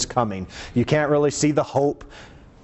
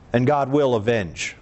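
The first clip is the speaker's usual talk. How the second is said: deep, weighty declaration; deep-voiced pronouncement; 4 semitones lower than usual. Real, not acted. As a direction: say it low and solemn. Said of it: "I say that with my deep voice".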